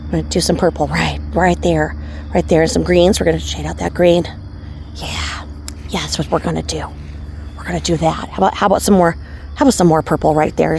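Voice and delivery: lightly voiced gentle painting-show host; a hint of a soothing TV painter; playful nod to a calm painting teacher; Bob Ross. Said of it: "I kinda feel like Bob Ross".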